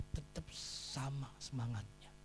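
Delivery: soft, restrained answer; tenang meyakinkan. Real, not acted. First answer, said softly. (menjawab pelan dan tenang)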